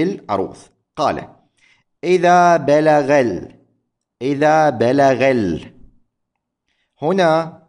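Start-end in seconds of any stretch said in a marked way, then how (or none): 2.0-3.6 slow, syllable by syllable, إذا بلغ ال- stretched out; slow scansion. Shown as a demonstration. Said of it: "هذه على وزن مفاعلة". 4.2-5.7 slow, syllable by syllable, إذا بلغ ال- stretched out; slow scansion. Shown as a demonstration. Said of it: "هذه على وزن مفاعلة".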